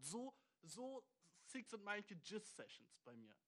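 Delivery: slowed-down, drawn-out punchline. Real, not acted. Brags to viewer about his sessions, slow deadpan punchline. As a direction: drag the line out for the joke.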